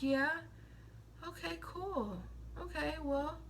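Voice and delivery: soft, hushed, over-concerned mock friend; mock clingy friend. Mocking what needy friends want from Aquarius, soft hushed fake concern. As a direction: coo it like a smothering friend.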